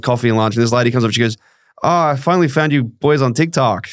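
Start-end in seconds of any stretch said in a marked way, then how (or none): 1.8-3.9 bad Canadian accent. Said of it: "That was a really bad Canadian accent".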